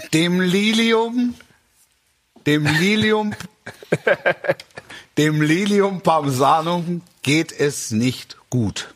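slow, grave bulletin; mock solemn announcement. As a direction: deliver it like sad news.

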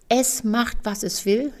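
"Es" set apart at the start as the culprit; stress on ES. Retold or imitated. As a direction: put the weight on the first word, "Es". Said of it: "die Betonung liegt auf es". (Betonung auf dem ersten „Es“)

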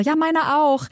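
mock excited chat. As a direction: play two authors delightedly finding common ground. Imagined excited chat between two authors.

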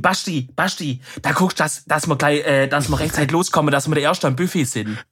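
southern dialect fussing at Basti; southern German dialect. Acted. Southerner acting out hurrying Basti to the buffet, southern dialect. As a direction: act out lightly in southern dialect. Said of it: "ja, aber Büro, Buffet".

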